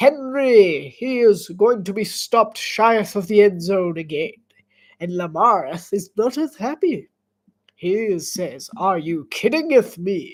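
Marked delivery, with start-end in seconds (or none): 8.8-10.3 mocking, put-on Old English speech. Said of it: "I like how I'm mocking Yield English".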